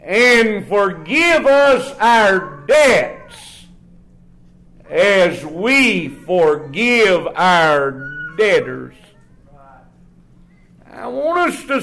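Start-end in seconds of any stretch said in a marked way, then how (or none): 0.0-9.0 slow, solemn reading of the verse; slow scripture reading. Acted. Preacher reading the Lord's Prayer verse, slow and solemn. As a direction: read the verse slowly for the church.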